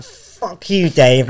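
P=A; snapped insult. Retold or imitated. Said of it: "like that".

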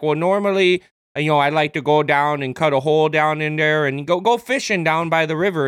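mock-Canadian rambler; lightly hammed Canadian accent; bad Canadian accent. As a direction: imitate a chatty Canadian. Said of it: "a bad Canadian accent".

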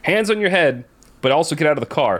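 a lightly voiced cop giving orders; mock police order. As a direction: repeat the sheriff's order with amusement. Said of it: "I always find those instructions funny".

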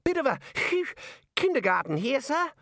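high, breathless wheeze; wheezing. A narrator's reading. Suddenly aged Ponder addresses his superior, wheezing. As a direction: gasp for air between phrases. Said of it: "Ponder wheezed".

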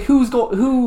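high, confused double take; stunned, cut-off question; surprised. Retold or imitated. Lads' confusion retold.

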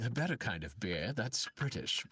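lightly mocked snooty British accent. Shown as a demonstration. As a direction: play the beer off as snooty British. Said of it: "trying to play that beer off as snooty".

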